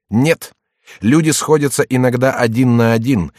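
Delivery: explosive rage. Acted. Hot retort in quarrel.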